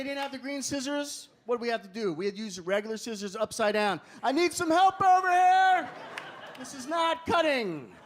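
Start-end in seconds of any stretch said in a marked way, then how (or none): 4.2-7.9 put-on high, pleading kid calling for help; whiny kid. Kid in class calling the teacher for help, high and whiny. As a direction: whine like a frustrated schoolkid.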